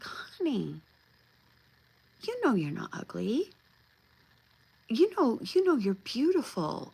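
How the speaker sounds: hushed honey, then rising, insistent comfort; retold grandmotherly comforting; tender reassurance. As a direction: reassure a hurt child, lilting up. Grandmother comforting hurt child, acted.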